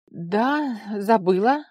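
shrugging. A narrator's reading. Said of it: "пожала плечами Вара".

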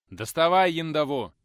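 put-on teacher growling at the boy; growled order. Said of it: "рыкнул Николай Сергеевич".

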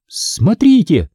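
high, drawn-out exclamation; sudden cry. A narrator's reading. Dee alerting friends to the wall, sudden cry. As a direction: call out suddenly, pitched high. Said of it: "закричала вдруг Ди".

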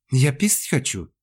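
high, drawn-out whine; acted childish whimpering. A narrator's reading. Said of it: "захныкала Ирина".

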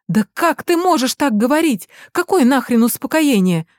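mother rages at calm advice; outraged. Acted. Angry mother over phone. (возмущённый крик)

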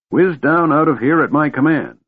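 put-on high-pitched, gleeful old man. A narrator's reading. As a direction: relish giving the order. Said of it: "cackling to himself in high glee".

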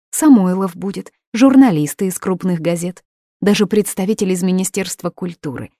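coaxing mother. Acted. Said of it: "уговаривала её Лидия".

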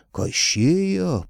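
high, loud astonished cry. A narrator's reading. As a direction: gasp it out in disbelief. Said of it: "поразилась правая".

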